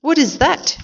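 very high-pitched startled cry; drawn-out, high cry of disgusted shock; storybook shout. A narrator's reading. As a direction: shriek it in mock alarm, without full volume. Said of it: "she shouted".

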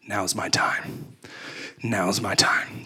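slow, soft whisper to himself, psyching up; quietly steel yourself, slowly; hushed pep talk. Retold or imitated.

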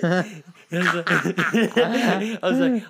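breaking up with high laughter; can't get the words out for laughing; giggling through the lead-in. Real, not acted. Cracking up telling story.

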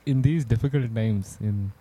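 slow, grave news anchor delivery; news reporter voice. Real, not acted. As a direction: read it like a serious newscaster. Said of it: "I sound like a news reporter".

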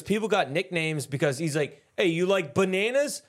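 put-on hamming up the old mobster's explanation; quoting an old gangster. Retelling a Gotti documentary gangster, light mobster voice. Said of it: "he goes, uh, he goes".

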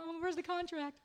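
high swooning gush; swooning girls. Retold or imitated. Husband joins mocking swooning fans, high gushing voice. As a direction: gasp it like a smitten fan. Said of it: "the girls are like".

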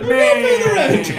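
very high hammed-up damsel voice; melodrama heroine. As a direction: squeal it like a helpless heroine. Melodrama victim answering villain.

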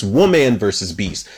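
light emphasis on the word "woman"; stress on woman. Shown as a demonstration. Reviewer explains the twist on man versus beast, stressing "woman". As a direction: lean on "woman" to contrast it. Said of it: "I put the emphasis on that".

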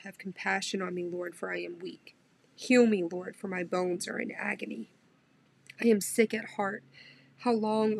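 moved devotional Bible reading; heartfelt scripture reading. Real, not acted. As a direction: pray the words as if they were your own. Emotional Psalm reading.

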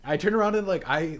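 high, loud burst through laughter; laughing. Real, not acted. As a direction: laugh while telling it. Laughing as he retells the scan.

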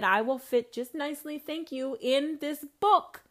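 booming, slow God voice laying down the law; a hint of a thundering God. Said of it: "God said".

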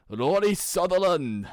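Rory Sutherland said high and loud, breaking into laughter; laughing. Real, not acted. Listing his bench to friends, bursting into laughter. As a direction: crack up halfway through the name. Cracks up naming a player.

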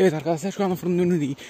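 lightly voiced vlogger intro; a hint of a chirpy street vlogger; YouTuber voice. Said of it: "kendimi şu anda YouTuber'lar gibi hissediyorum".

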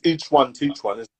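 talking through a mouthful of food; mouth full. Real, not acted. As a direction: say it around a bite of pastry. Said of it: "With your mouth full".

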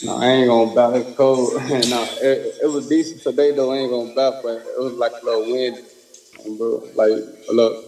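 distant, faint voice off the mic; speaking too far from the phone; phone held away. Real, not acted. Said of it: "Talk, talk closer to the phone".

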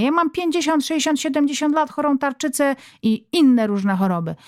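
mother snapping back at husband about her weight; indignant mother. Acted. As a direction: play the wounded martyr.

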